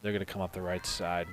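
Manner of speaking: measured sports play-by-play call; live play-by-play. Real, not acted. Announcer calls the game to listeners, steady play-by-play. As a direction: follow the play in an even commentator's voice.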